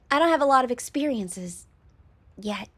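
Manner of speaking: a hint of cutesy innocence; lightly cute girl voice. Slime girl admitting inexperience, lightly cute. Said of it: "Wobbly, high-pitched, and very cute".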